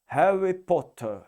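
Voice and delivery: light British accent. Shown as a demonstration. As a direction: say "Harry Potter" the English way, R softened. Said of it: "E o inglês vai falar".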